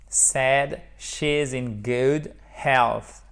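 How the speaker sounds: slow, "health" ending on a soft th; teacher modelling the soft th of "health". Shown as a demonstration. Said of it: "vous faites bien le soft T H".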